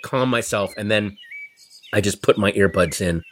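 normal talking voice

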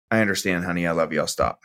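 giving in. Retold or imitated. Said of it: "I either go".

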